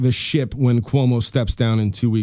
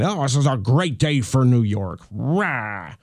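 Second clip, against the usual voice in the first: mock cheer; slower than usual. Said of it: "before you start saying".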